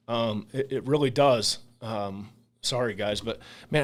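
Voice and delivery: real emotion catching the voice; choked up. Real, not acted. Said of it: "I can't even say it, um, without, without getting emotional".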